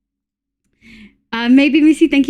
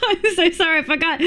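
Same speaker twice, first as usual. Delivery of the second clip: laughing apology; 4 semitones higher, 3 dB quieter, much faster than usual. Real, not acted. Apologizing while giggling.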